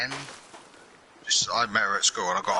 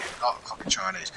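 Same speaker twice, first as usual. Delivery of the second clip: incredulous thought; 10 semitones higher, 4 dB quieter than usual. Retold or imitated. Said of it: "And I thought".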